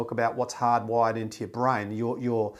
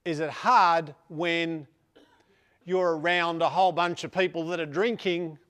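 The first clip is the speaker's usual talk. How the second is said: higher, put-on voice of a curious asker; mock questioner voice; 5 semitones higher than usual. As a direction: ask it in a silly higher voice. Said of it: "I don't know why I'm doing that voice".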